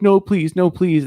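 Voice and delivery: high-pitched imitation of a begging victim; mock pleading. Victim begs the gunman.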